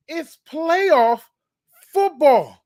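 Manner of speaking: high, punched hype delivery; hyped repeat. Real, not acted. Host repeating it for the fans to hear, hyped. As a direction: repeat it bigger, stretching playoff high. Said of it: "let me repeat it again".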